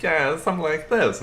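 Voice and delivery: high squeaky cartoon sidekick; high-pitched Max voice. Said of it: "a high-pitched voice like".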